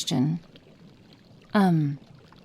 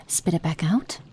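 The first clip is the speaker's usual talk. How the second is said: ordinary talk, nothing marked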